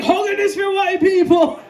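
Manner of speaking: put-on high, loud Jamaican-accented dismissal; indignant Jamaican dad; Jamaican father. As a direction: scoff loudly in a Jamaican accent. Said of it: "And he'd be like".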